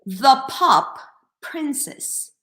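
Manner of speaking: The pop princess with an English breathy p; English pronunciation. Shown as a demonstration. Teacher modeling English version for learners. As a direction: pop said with a strong English puff of air. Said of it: "let's try to say it in English".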